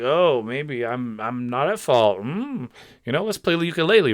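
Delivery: slow mocking drawl of a dodgy apology; mock evasive apology. Mocking creators who dodge blame, slow evasive voice. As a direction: parody someone wriggling out of blame. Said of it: "You don't need to skirt around it like".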